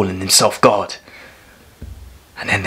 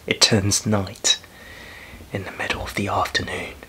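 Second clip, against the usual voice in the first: awed repetition; 8 dB quieter than usual. Acted. Repeats the unbelievable for effect.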